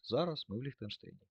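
"Зараз" given the main weight, the tune falling after it; stress on зараз. Shown as a demonstration. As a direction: hit "Зараз" as the key word. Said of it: "з акцентом на те, що саме зараз".

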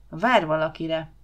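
slow, knowing statement; expert verdict. Acted. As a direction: pronounce it like an expert. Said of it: "állapította meg szakértelemmel Huba".

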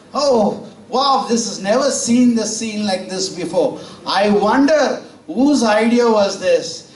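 high, wide-eyed farmer gasping at the sight; amazed farmer. Acted. Farmer marvelling at ducks carrying frog, high amazed voice.

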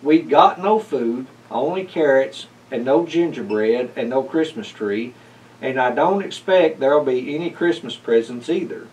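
a touch of hopping-mad sputter; the upset cat sputters his complaints at the visitor; mild sputtering anger. Acted. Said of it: "hopping mad and sputtered".

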